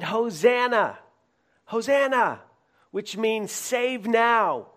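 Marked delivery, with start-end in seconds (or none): 0.0-1.0 high, loud cry of Hosanna; crowd shout. Retold or imitated. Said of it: "they shouted". 1.7-2.4 Hosanna even higher and loud; crowd shout again. Retold or imitated. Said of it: "they shouted".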